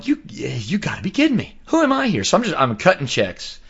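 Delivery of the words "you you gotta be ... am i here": breathy disbelieving whisper, then a high squeak; retold whispered aside at the DMV; incredulous whisper. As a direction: hiss it under your breath in disbelief. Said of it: "But I'm sitting there going".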